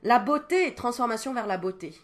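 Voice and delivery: s'exclame fort, plus aigu, ravie; éclate de joie devant la carte; émerveillée. Real, not acted. (exclamation émerveillée, plus forte et plus aiguë)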